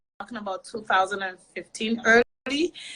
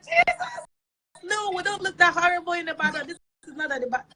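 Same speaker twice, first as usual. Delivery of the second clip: high-pitched yelp settling into protest; mock outraged shock; 7 semitones higher, faster than usual. Offended Ibadan viewers reacting to the video, mock outrage. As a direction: imitate scandalised critics, pitch way up.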